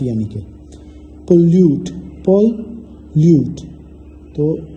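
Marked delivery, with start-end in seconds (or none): 1.3-3.6 slow modelled word. Shown as a demonstration. Teacher models word pronunciation.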